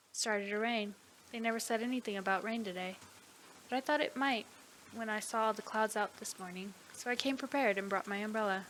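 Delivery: measured read-aloud storytelling; story narration. A narrator's reading. Protagonist recounts a funeral encounter, story narration.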